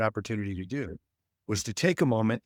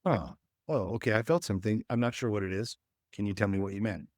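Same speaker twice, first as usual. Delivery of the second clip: calm curious demo; 3 dB quieter, faster than usual. Shown as a demonstration. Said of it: "it was a".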